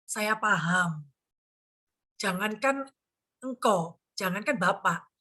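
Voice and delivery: side gently with the upset client; empathetic. Retold or imitated. Agent soothing an angry client, empathetic. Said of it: "itu berempati".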